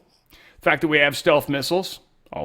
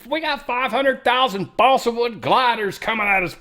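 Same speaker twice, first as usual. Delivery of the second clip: mock alarmed report; 12 semitones higher, 4 dB louder than usual. Mock panic of China's enemy.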